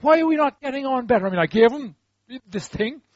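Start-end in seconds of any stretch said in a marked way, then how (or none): 0.0-1.3 higher-pitched, mock-plaintive questioning; frustrated complaint. Believer complaining to God about no response, frustrated. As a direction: plead in puzzled frustration.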